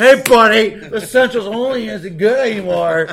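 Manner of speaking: mock scolding. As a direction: loudly take a buddy to task, hammed up. Mock scolding over being essential.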